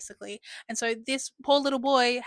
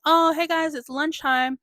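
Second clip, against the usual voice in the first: calling out cheerily; 5 semitones higher, 6 dB louder than usual. Retold or imitated. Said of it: "And then they're like".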